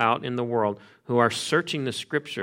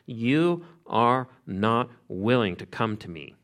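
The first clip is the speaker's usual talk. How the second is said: slow, separately weighted opening words; flat-out confrontation; slower than usual. Acted. Jesus confronting the leaders, flat out. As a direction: confront them deliberately, word by word. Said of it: "Jesus just confronts them flat out".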